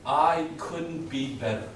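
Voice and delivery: slow, drawn-out upbeat answer; enthusiastic. Shown as a demonstration. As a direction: demonstrate passion, stretching the words. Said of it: "Say it with a little bit of enthusiasm".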